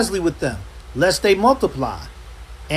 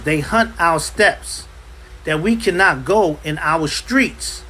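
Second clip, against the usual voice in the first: scripture reading; slower than usual. Shown as a demonstration. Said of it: "It says".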